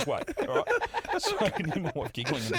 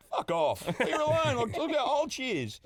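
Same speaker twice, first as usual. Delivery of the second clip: retold telling off; 11 semitones higher, 3 dB louder than usual. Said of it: "And I went".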